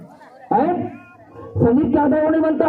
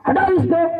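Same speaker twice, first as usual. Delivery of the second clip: mock angry yell; 3 semitones higher than usual. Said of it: "बेटा चिल्ला के उठता".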